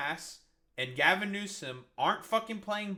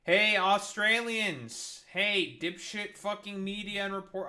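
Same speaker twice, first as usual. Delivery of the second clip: calling out; 4 dB louder than usual. Real, not acted. Calling out Australian media.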